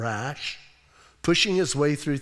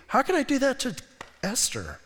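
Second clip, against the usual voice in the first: anguished king; 7 semitones higher, 4 dB quieter than usual. Retold or imitated. King's inner anguish voiced.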